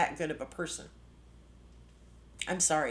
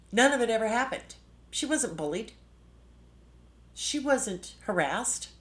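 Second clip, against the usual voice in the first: higher and louder, furious denial; angry outburst; 4 semitones higher, 4 dB louder than usual. Real, not acted. To viewers, denying the bullying, a real angry burst. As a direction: blurt it out in real anger.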